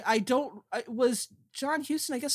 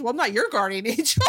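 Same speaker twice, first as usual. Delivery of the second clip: laughing quote; 5 dB louder, faster than usual. Retold or imitated. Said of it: "I guess his attitude is".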